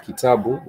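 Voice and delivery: kitabu, each syllable clear; Swahili word kitabu. Shown as a demonstration. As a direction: say kitabu as ki-ta-bu, even stress. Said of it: "examples of the word such as kitabu".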